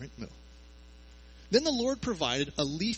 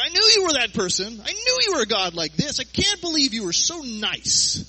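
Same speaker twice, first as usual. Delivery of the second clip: loud, high, sulky complaint to God; whiny Jonah; 9 semitones higher, 11 dB louder than usual. Retold or imitated. Jonah grumbling at God, loud whiny complaint. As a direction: pout it out like a spoiled prophet. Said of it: "He's like".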